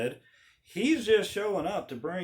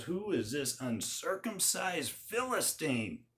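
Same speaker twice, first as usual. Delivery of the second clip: righteous indignation; 3 semitones higher than usual. Retold or imitated. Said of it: "he says".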